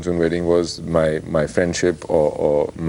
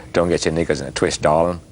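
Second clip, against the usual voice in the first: Aussie accent slipping American; 2 semitones lower than usual. Shown as a demonstration. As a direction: try Aussie, drift into American. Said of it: "Oh, that was American".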